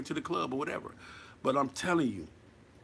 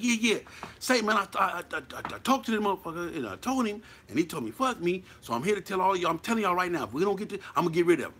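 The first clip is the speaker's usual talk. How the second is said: mock chump rant; 4 semitones higher than usual. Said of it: "No, you sound like a chump".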